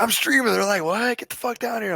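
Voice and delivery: high, lightly mocked voices; a hint of panicked cops; retold exchange. Streamer retelling the cops' shouted reply, high and lightly mocked.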